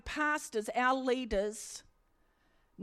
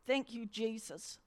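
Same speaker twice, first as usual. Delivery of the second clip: soft thanks; 8 dB quieter than usual. Real, not acted. Soft thanks after escape.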